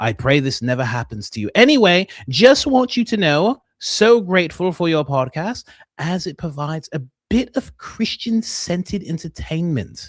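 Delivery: put-on London woman's accent. Reading a fan's message to the podcast hosts, in a female London accent. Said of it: "I'm trying to do the female, you know, London accent".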